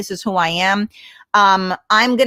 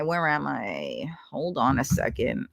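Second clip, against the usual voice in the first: whisper; 7 semitones lower, 9 dB quieter than usual. Real, not acted. Searching for a comment.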